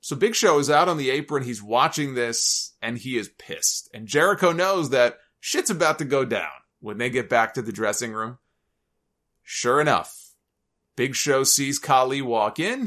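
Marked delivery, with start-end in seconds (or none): none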